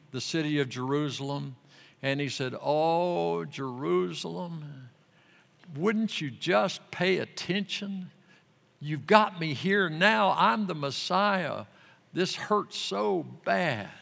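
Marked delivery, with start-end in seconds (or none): 2.6-13.9 lightly voiced Jesus. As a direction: plead gently, a little heartbroken. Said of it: "I'm paraphrasing".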